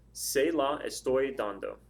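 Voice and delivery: "Se la estoy dando" read out slowly, word by word; a measured, deliberate example sentence; slow model reading. Shown as a demonstration. Teacher reading the new sentence to learners, slow and clearly separated. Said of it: "your new sentence could read as".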